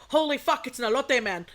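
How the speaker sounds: retold burst of excitement; excited. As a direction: act out spotting a favorite treat, excitedly. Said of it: "I got so fucking excited".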